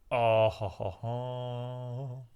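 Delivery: drawn-out hollow ho-ho-ho; groaned laugh trailing away softly; dismayed fake laugh. Reacting to bad news in story.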